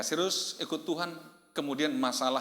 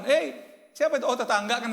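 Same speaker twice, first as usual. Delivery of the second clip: high, loud mock challenge; God calling out; 11 semitones higher, 7 dB louder than usual. Preacher jokes as God hearing the neighbour shout, loud calling voice. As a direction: call out sharply, as God overhearing a shout. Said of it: "kata Tuhan".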